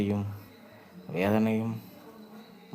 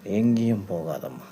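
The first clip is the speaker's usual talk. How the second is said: calling out. Acted. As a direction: cry out to her as she goes. Unborn child calls to mother.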